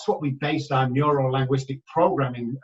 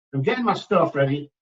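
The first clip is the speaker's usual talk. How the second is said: normal talking voice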